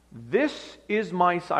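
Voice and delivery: slow, measured voice of God, lightly voiced; a hint of God's solemn announcement. Preacher voices God speaking from heaven, slow and lightly portrayed. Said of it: "You hear the voice of God speaking".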